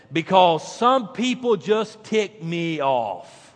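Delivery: slow, drawn-out booming punchline; God's voice. Retold or imitated. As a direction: deliver it like God from above. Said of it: "God said".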